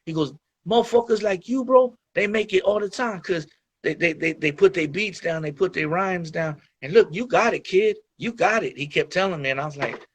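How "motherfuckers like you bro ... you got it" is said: higher-pitched, lightly put-on Brooklyn accent; a hint of a New York hustler talking you up; Brooklyn dealer voice. Imitating the New York dealer hyping up the young rapper, in a light Brooklyn accent. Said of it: "kinda like Brooklyn dude".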